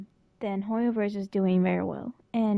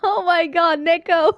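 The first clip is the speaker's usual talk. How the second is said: excited squeal; 6 semitones higher, 7 dB louder than usual. Real, not acted. Excited reaction to character appearing.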